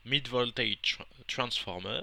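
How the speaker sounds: halting English in a French accent; stumbling French-accented English; English accent attempt. Real, not acted. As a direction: try the English term slowly, French accent showing. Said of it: "j'ai un meilleur accent de, anglais".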